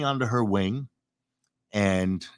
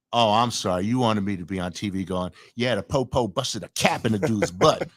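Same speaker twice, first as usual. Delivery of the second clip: mock street talk; 2 semitones lower than usual. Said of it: "That that's how you want me to talk on T V".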